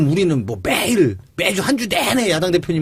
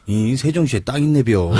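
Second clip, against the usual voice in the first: Chungcheong dialect. Retold or imitated. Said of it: "예를 들어서 하나 해주세요".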